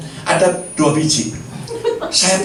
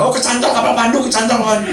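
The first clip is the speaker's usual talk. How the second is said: imitated higher-pitched alarm call; bystander calling out; 6 semitones higher than usual. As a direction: call out like an onlooker warning the angler. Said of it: "orang bilang".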